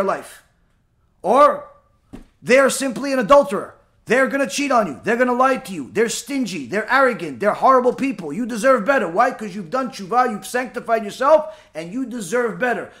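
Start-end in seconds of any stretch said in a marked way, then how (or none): none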